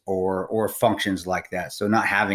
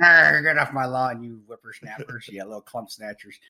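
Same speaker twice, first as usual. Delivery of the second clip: put-on cranky old geezer off his porch; old prospector. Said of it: "turn into Clint Eastwood sitting on the porch saying".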